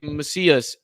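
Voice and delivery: "Macias" as muh-SEE-us, stressed in the middle; friend's mispronunciation. Retold or imitated. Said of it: "last name was pronounced incorrectly".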